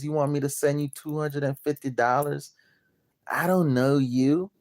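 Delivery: a lightly put-on voice of a wary stranger; mock skeptic. Mocking a doubting client to the audience, lightly put-on suspicious voice. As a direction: mimic the doubting client, turning suspicious questions up at the end.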